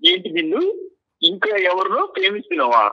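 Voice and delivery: pleading through tears; tearful, begging her not to leave; crying. Real, not acted. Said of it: "అలా ఏడవకు గోపాల్". (ఏడుస్తూ బతిమాలుతూ)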